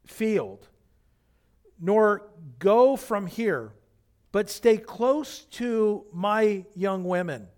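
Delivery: scripture reading. Acted. Pastor reading Boaz's speech to the congregation, slow and solemn. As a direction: read each phrase with weight and pauses. Reads Boaz's words from Ruth.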